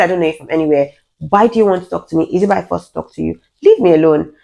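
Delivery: mildly angry rebuff, firm final command; retold anger. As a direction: push back with contained irritation, landing hard at the end. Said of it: "the shock was now anger".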